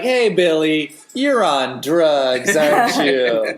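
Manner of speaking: slow, earnest after school special voice; hammed-up PSA teacher. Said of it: "It sounds like an after-school special".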